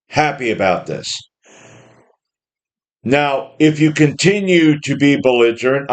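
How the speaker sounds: steady, settling a belligerent man down; calm reasonable judge. Retold or imitated. A fair judge calmly talking down a rude defendant, gentle and patient. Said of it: "he would have said".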